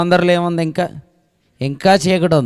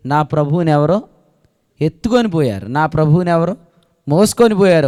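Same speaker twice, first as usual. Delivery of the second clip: Mary's lament; 5 dB louder than usual. Acted. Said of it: "ఆమె ఉద్దేశం".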